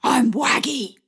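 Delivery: playful put-on dog voice with barks; woman voicing a china dog for a shy child; doggy voice. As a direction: play a friendly dog to coax a shy boy.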